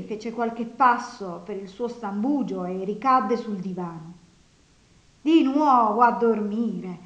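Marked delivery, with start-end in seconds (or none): 5.2-7.0 loud, slow exasperated shout. A narrator's reading. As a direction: shout it at him across the room. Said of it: "gridò Nastasia". (grido esasperato, forte e lento)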